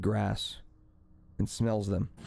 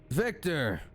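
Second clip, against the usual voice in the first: "Victor!" exclaimed higher in sudden recognition; joyful recognition; 5 semitones higher than usual. Acted. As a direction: call out "Victor!" as it dawns on you. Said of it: "the lizard folk says".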